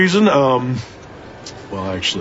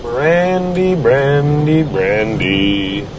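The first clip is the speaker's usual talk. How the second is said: calling out, fading; 5 semitones higher, much slower than usual. Acted. Calling her name repeatedly, fading.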